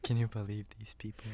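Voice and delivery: mock outraged whisper; ASMR whisper. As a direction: whisper the gossip. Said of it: "do A S M R the entire time".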